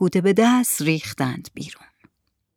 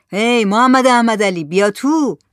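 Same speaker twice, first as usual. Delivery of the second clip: raised, higher call back; 3 semitones higher, 4 dB louder than usual. Acted. Zahed answers from inside the hut, calling out. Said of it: "صدای زاهد از توی کپر بلند شد".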